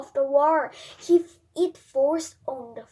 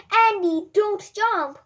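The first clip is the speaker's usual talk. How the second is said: high, loud alarmed warning; frightened cry; 8 semitones higher, 9 dB louder, slower than usual. A narrator's reading. Mother seeing her son about to jump, frightened cry. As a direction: scream to stop him jumping. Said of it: "cries Mom".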